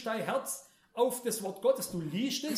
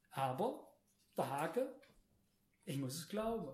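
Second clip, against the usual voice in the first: softer, lower restatement of the condition; quiet reminder; 4 semitones lower, 6 dB quieter than usual. Real, not acted. Preacher reminds congregation of the catch, quiet and low. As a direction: drop the volume and say it simply. Repeats the catch after pauses.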